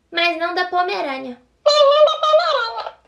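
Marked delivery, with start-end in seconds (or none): 1.6-2.9 much higher, louder toy voice; talking doll voice. Shown as a demonstration. Girl repeating the line as her toy, high squeaky doll. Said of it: "toy voice repeat".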